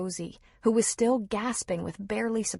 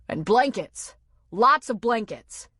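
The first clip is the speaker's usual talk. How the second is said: urgent call; 4 semitones higher, 6 dB louder than usual. A narrator's reading. Urgent call during rescue.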